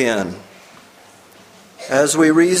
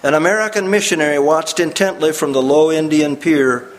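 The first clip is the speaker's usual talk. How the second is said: story narration; 3 semitones higher, faster than usual. Acted. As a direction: read the story like a preacher drawing listeners in. Reads the story aloud.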